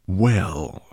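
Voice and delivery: breathy, whispered menace; hushed, sinister drawl; dangerously soft. A narrator's reading. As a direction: let the word hang as a threat. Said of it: "in a dangerously soft voice".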